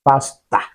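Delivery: "pastor" ending in an open "ah"; Ghanaian-style "pastor", final "-or" turned to "ah"; Ghanaian pronunciation. Shown as a demonstration. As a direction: say "pastor" as "pas-TAH". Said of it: "when you want to speak like Ghanaian".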